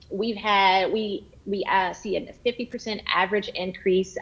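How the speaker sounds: halting misread with restarts; stumbling over the slide text; stumbling cold read. Real, not acted. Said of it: "I'm reading that wrong".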